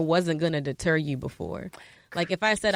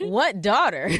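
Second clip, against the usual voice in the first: laughing; 3 semitones higher, 5 dB louder, slower than usual. Retold or imitated. Retelling her shocked reply, laughing.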